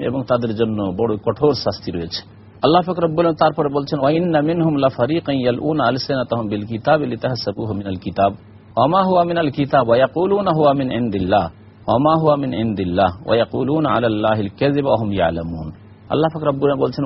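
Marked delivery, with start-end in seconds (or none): 4.0-15.7 measured Arabic verse recitation; Quran recitation. Acted. (কোরআন তিলাওয়াত)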